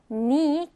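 "knee" said as "nee", no K sound; silent K. Shown as a demonstration. Teacher shows learners a word with silent K, "knee" said as "nee". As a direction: start "knee" straight on the N. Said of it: "K로 시작을 하지만 K는 발음하지 않아요".

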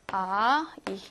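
아이 said slowly and clearly as one vowel glide; pronunciation demo. Shown as a demonstration. Teacher modelling the ei sound for students. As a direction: model 아이 cleanly. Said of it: "이거는 아이로 발음하죠?".

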